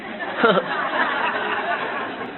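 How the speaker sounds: breathy high chuckle; light unvoiced laugh; high airy laugh. Real, not acted. Laughing at own kid impression.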